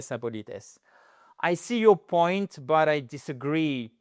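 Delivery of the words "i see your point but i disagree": polite disagreement. Shown as a demonstration. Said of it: "de manière ostentatoire son respect".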